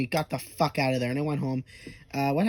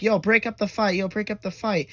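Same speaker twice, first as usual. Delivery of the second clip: higher-pitched mock interruption; urgent calling out; 6 semitones higher, 4 dB louder than usual. Aliens stepping in to stop a fight, mock urgent call. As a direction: call out to break up a scuffle.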